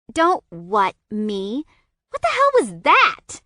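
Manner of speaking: high, loud eager gossip; gossipy fire. A narrator's reading. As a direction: demand the juicy details. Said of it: "a gossipy fire in her voice".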